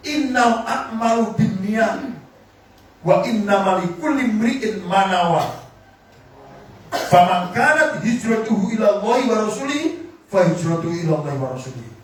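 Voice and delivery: measured, chant-like Arabic; hadith recitation. Acted. (melantunkan hadis dengan khidmat)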